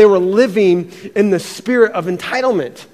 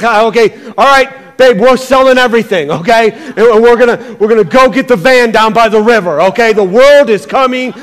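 louder, hurried alarm telling babe they're selling everything; mock panic; 5 dB louder than usual. Preacher acting out telling his wife to flee, mock panic. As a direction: play yourself frightened by the news, hammed up.

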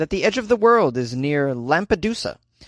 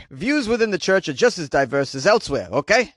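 put-on old Jewish man voice; 4 semitones higher than usual. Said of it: "I was doing an old Jewish man, uh, voice".

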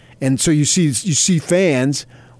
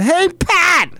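high, loud yell of a name; yelling across shop; 6 dB louder than usual. Retold or imitated. Mother yelling across the gift shop to her husband, high loud holler. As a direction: holler to get his attention across the room. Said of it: "She yelled out".

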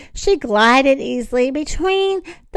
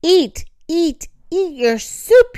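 high, pressing command; insistent; 5 semitones higher than usual. A narrator's reading. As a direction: badger with repeated high-pitched orders. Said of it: "Zoop was insisting".

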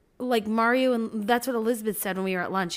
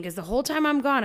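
ordinary talk, nothing marked

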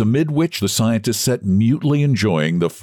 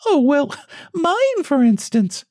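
much higher, breathy awkward titter; feeble laugh voice; slower than usual. A narrator's reading. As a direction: squeak it out with a nervous laugh. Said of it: "with a feeble laugh".

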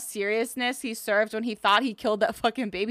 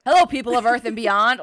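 mock news-anchor voice; faster than usual. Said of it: "his on-air voice, news anchor".

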